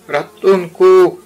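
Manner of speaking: high, loud cry for help; shouted for help. A narrator's reading. Pooh falling from the oak, shouting for help. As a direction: yell it out as you fall. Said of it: "zawołał".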